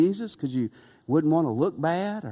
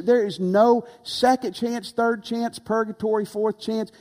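emphatic high insistence; 5 semitones higher than usual. Real, not acted. Preacher insists hell has no second chance.

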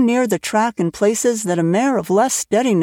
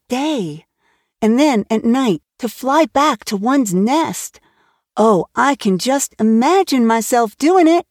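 put-on lightly raised, eager young girl's voice; Anne, eager girl; 3 semitones higher than usual. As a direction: chatter on like a dreamy, excited child. Anne's enthusiastic chatter.

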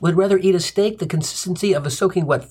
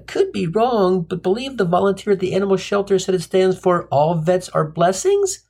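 mock stammer; 3 semitones higher than usual. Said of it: "I stammered".

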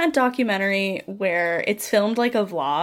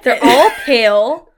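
laughing; 8 dB louder, slower than usual. Real, not acted. Laughing emphatic.

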